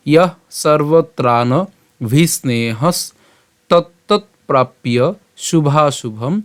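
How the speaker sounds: slow, measured shloka reading; teacher reciting Sanskrit slowly for learners; verse recitation. Shown as a demonstration. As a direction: recite phrase by phrase with drawn-out syllables.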